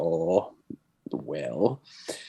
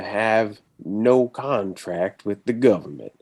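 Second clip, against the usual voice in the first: put-on slow, eased-in Southern accent that lands near Tennessee; Texan accent, slowed. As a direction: ease into a slow Texas drawl. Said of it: "you sound like you're from Tennessee".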